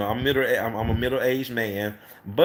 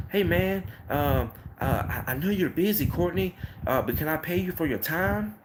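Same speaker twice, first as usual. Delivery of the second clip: higher, pleading cleaner asking a favor; eager customer voice; 5 semitones higher than usual. Retold or imitated. A cleaner asking Courtney for paid help, in an eager, higher voice. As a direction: play the hopeful cleaner begging for time.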